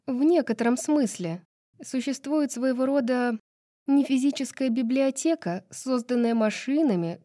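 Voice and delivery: put-on lightly animated young-woman dialogue; chatty heroine.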